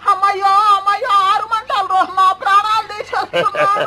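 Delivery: pained wailing. Acted. Patient wails at the men rubbing lemons on her, pained. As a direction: wail as the burning gets worse.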